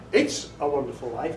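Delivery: It's said with the first word leaned on, rising at the end; stress on IT'S. Shown as a demonstration. Narrator demonstrating inflection to audience, weight on It's. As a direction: lean on "It's" in "It's a wonderful life". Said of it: "three different inflections there".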